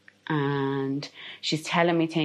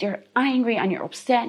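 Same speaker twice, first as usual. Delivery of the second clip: ordinary delivery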